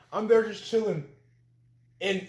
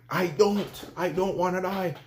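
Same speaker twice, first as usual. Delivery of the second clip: retold pleading; 4 semitones higher than usual. Retold plea rises.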